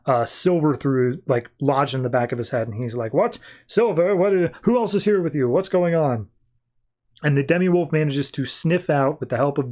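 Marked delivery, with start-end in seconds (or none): 3.1-6.3 higher-pitched startled questioning; retold bewilderment, acted lightly; mock alarm. Demi-wolf finds silver in his fallen companion, mock alarm.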